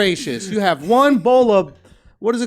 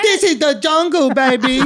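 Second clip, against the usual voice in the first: hammed-up fake Vietnamese accent, higher; mock Vietnamese accent; 3 semitones higher than usual. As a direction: boast in a put-on Vietnamese accent. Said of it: "y'all know what they were talking about".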